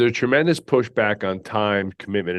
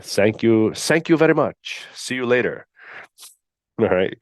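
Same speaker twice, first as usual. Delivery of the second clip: sarcastic dismissal. Retold or imitated. Sarcastic send-off to candidate.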